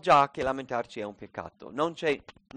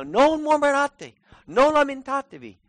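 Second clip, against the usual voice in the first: emphatic command; 10 semitones higher, 7 dB louder than usual. Retold or imitated. Paul teaching the Corinthians not to grumble, loud command. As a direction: order it forcefully, pitched well up. Voices Paul's command to the church.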